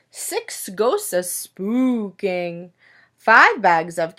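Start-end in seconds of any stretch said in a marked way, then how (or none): 0.1-2.7 slow, hushed spooky ghost voice; hushed storybook spookiness. Acted. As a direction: draw it out like a ghost telling a story to kids. Ghosts in spooky counting book.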